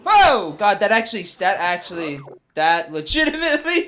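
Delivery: scared horror game streamer. Real, not acted.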